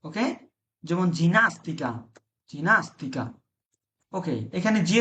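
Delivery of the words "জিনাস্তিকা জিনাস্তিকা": "জিনাস্তিকা" opened with a j sound before i; soft g pronunciation. Shown as a demonstration. Teacher gives an example, "জিনাস্তিকা" with soft j. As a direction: say "জিনাস্তিকা" as jee-NAS-tee-ka. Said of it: "জি এর পরে যখন এ অথবা ই থাকবে".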